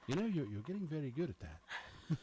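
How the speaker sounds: imitated British engineer, a little put-on; lightly mocked British accent. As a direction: do a gentle British impersonation. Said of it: "he's British".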